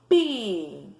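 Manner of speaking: "Pinheiro" in three slow, separated syllables. Shown as a demonstration. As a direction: say "Pinheiro" as PI, NHEI, RO with pauses. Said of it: "as sílabas pausadamente".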